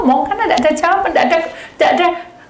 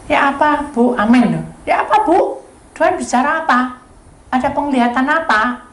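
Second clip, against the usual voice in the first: desakan keras; 5 semitones higher, 4 dB louder than usual. Retold or imitated. Pria mendesak.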